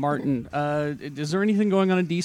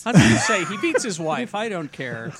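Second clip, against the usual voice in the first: Sean Connery impression; 6 dB louder than usual. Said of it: "all these impressions".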